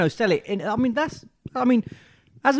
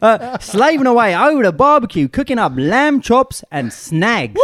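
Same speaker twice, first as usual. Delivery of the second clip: Farhan's voice. Retold or imitated. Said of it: "Do it in Farhan's voice".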